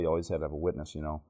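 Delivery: normal talking voice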